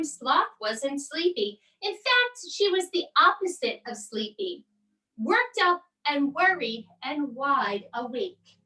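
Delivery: lively storybook read-aloud; reading to children. A narrator's reading. Mom reads a bedtime story to her boys, animated and expressive.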